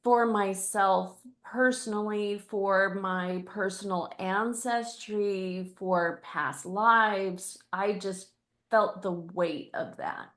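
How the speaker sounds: crying. Real, not acted. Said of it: "I'm crying".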